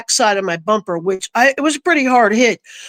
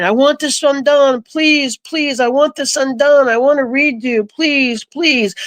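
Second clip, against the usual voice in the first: higher-pitched imitation of begging; retold pleading; 3 semitones higher than usual. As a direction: replay a repeated plea, pitched up. Retelling her repeated plea over truck.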